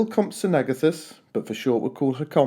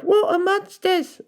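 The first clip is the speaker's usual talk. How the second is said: much higher, slow scared cry; frightened cry; 3 dB louder, slower than usual. A narrator's reading. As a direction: gasp it out in fright. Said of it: "one cried".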